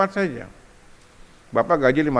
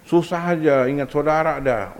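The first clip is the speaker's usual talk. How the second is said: mock angry wife; 3 semitones higher than usual. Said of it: "Istri yang marah".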